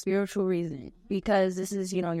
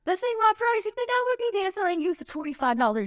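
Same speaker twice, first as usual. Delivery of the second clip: sassy; 9 semitones higher, faster than usual. Retold or imitated. Mocking a customer's lowball price.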